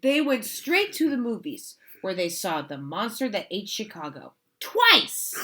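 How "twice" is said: emphatic twice. Acted. Reader stresses twist for child.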